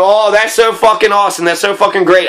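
bitter mock praise; dripping sarcasm about getting robbed; sarcastic. Real, not acted. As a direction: say it like it's wonderful when it's awful.

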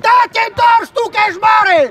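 shouted scolding. Real, not acted. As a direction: yell the rebuke at the player. Coach scolding a player loudly.

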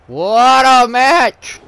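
slow, loud drawn-out praise; excited. Real, not acted. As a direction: stretch it out in awe.

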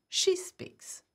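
unvoiced whisper of the English meaning; whispered translation. Shown as a demonstration. Teacher glossing the French for students, whispering.

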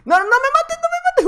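squealing no me mates way up high; a high, frantic plea to a player not to kill him; panicked high plea. Real, not acted. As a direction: beg for your life in a high squeal. Begging not to be killed.

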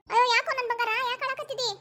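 put-on high-pitched doting baby talk; cooing grandmother. Grandmother asks crying grandchild why, cooing high. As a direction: coo over a crying little one.

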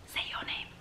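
soft whispered aside; hushed prompt to the viewer. Real, not acted. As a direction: whisper the cue.

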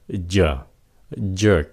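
"giờ, jerk" with a light J sound; soft J. Shown as a demonstration. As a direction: ease gently into the J of "giờ, jerk". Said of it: "chờ nhẹ thay".

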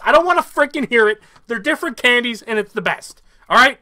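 winded from ranting; breathless, pushing through; out of breath. Real, not acted. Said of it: "I'm out of breath".

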